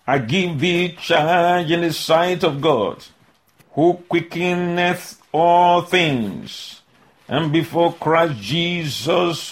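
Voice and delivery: slow, solemn reading of scripture. Acted. Preacher reading First Timothy to his congregation, slow and solemn. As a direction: lay out each clause slowly and deliberately.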